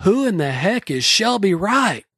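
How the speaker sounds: put-on bellowing at top of lungs, high, drawn-out, frustrated. Retelling being frustrated by the same answer, imitating own shouting. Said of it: "yelled to the top of my lungs".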